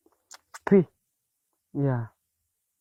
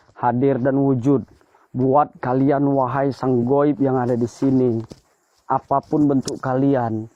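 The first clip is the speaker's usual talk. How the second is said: ritual invocation; 2 semitones lower than usual. Acted. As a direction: call on the unseen with solemn weight. Invokes spirits in ritual.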